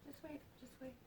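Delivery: soft urgent just wait; hushed queen. Retold or imitated. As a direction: quietly stop him like a gentle queen. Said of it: "She's like".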